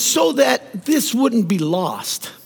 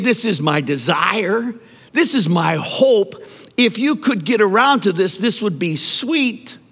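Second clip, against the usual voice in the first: offhand, as if merely hoping; mock casual wish. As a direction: say it like a polite optional request. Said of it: "Jesus isn't saying".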